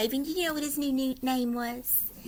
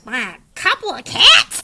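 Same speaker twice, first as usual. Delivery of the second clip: mild moan; 3 semitones higher, 9 dB louder than usual. Acted. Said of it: "they moaned".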